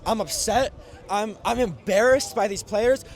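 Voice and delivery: shivering. Real, not acted. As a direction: voice shaking from the cold. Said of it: "freezing cold off and I'm shaking".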